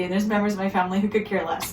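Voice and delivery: quick unvoiced whispered aside; conspiratorial whisper. Real, not acted. Teasing the relatives who don't care, whispered aside. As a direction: drop to a fast sneaky whisper. Aside about family members.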